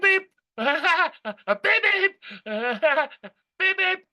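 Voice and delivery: high, laughing beep-beep like a heart monitor coming back. Retold or imitated. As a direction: chirp the beeps high, laughing through them. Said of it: "I'm using this heart analogy".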